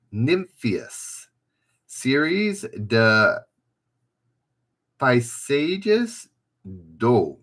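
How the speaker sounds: halting, clumsy attempt at French; badly faked French accent, slowly sounded out; terrible French accent. Shown as a demonstration. Quiz host struggling through French painting titles, terrible French accent. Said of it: "that's a terrible French accent".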